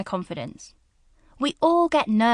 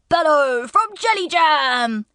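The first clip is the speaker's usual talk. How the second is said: slow cartoon voice; 4 semitones higher, 4 dB louder, slower than usual. Shown as a demonstration. Voice reel of character voices.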